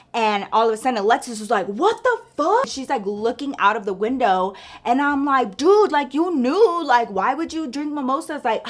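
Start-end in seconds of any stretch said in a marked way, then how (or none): 1.7-2.6 much higher, startled yelp of a friend; retold shocked outcry. Friend in the car spots trouble, mock shocked. 5.5-8.4 higher, pushed reproach; retold exasperated scolding. Scolding friend in a retold quarrel.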